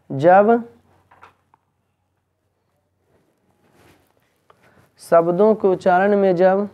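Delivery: measured classroom dictation, phrase by phrase. Acted. Teacher dictating a definition for students to copy, measured dictation. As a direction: dictate in short chunks with long pauses.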